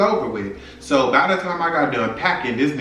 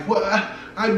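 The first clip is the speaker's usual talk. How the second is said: mock choked-up stammer; choking up, stammering; 7 semitones higher, much faster than usual. Caught boyfriend on the phone, mock coughing and choking up. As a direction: imitate someone coughing over broken words. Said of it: "niggas get to coughing up, choking up".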